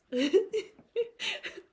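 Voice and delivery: loud high giggle breaking the act; cracking up mid-bit; real laugh bursting out; high burst of laughter. Real, not acted. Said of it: "I'm so sorry".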